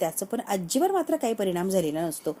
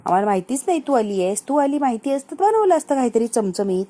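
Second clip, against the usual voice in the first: louder, lightly acted exasperation; irritated daughter; 6 dB louder than usual. Sumitra answers her mother about not knowing she had come, mildly irritated. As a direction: retell an annoyed rebuke to mother. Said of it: "Sumitra चिडलेली असते".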